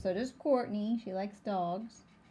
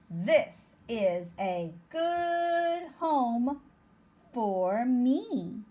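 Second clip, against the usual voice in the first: a hint of a happy little bug, slow; the bug pleased with its new home, drawn out; lightly voiced bug; 4 dB louder, much slower than usual. Teacher voicing the bug character, slow and light. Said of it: "says the bug".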